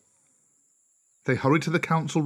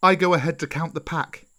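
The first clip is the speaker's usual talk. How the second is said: higher, eager call to the pack; excited cry; 5 semitones higher, 3 dB louder than usual. Acted. Mowgli sets off ahead of the pack, excited cry. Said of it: "cried Mowgli".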